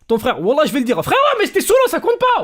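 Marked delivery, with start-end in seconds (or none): 1.0-2.4 high, giggling excuse; laughing. Retold or imitated.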